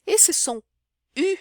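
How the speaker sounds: very slow, U drawn out and rounded; teacher drawing out the French vowel. Shown as a demonstration. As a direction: stretch the French U. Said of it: "não existe em português".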